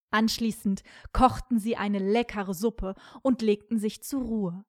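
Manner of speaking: ordinary delivery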